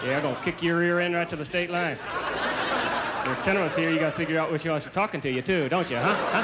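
put-on redneck Southern accent through barely moving lips; Southern ventriloquist. Rednecks threatening a New Yorker, tight-lipped southern accent. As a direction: talk Southern like a ventriloquist, lips held still. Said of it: "they don't move their lips".

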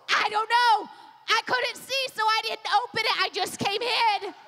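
imitated flustered babysitter; mild acted panic. Babysitter explaining herself to the mom, mildly acted panic. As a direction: lightly play a rattled excuse.

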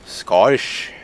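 attempted Scottish accent on the word; voiced Scottish-accent attempt, rising at the end. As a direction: say Scottish with a put-on Scottish burr. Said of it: "Just doesn't seem quite right".

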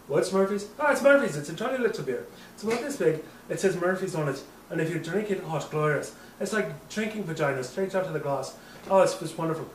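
put-on lilting drunk Irish accent; hammy tipsy Irish accent. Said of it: "we're both doing Irish accents".

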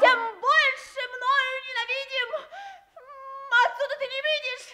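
speaking through tears; tearful. Acted. Princess, losing the contest, speaks through tears. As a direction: let the tears break in.

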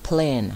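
"Plane" said alone, clearly, falling; pronunciation demo. Shown as a demonstration. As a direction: model "Plane" with its long ay vowel. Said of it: "ครูจะออกเสียง".

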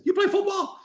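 high-pitched, half-laughing disbelief; incredulous. Retold or imitated. Coach quizzes an unknown volunteer, incredulous. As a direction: question it as if you can't believe it.

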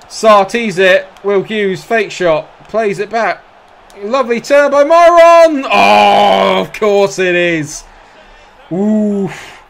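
hyped commentator erupting at the goal; excited goal call. Real, not acted. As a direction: explode with joy as he scores.

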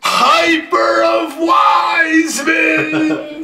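very high, elongated hype yell; excited shout. Real, not acted. Breaker announcing a Wiseman hyper, excited shout. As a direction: stretch the call out high and thrilled.

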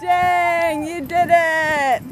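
breathless after running; panting between words; out of breath. Real, not acted. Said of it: "And I'm out of breath".

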